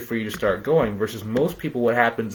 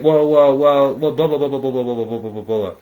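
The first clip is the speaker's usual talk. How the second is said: louder, hammed-up stammering excuses; mock evasive owner; 7 dB louder than usual. Coach mocks a business owner stalling on money, louder. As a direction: mimic a flustered owner dodging the question.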